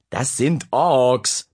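drawn-out indignant correction; protesting, slow. Acted. Brother protests to his sister, slow and indignant. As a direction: correct her, offended. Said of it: "protestierte Dennis".

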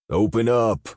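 high, loud desperate scream. Acted. Fallon screaming at guards behind the door. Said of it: "he screamed".

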